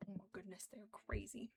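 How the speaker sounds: a hushed aside about the noisy birds; whispered aside. Real, not acted. Quails noisy in next room.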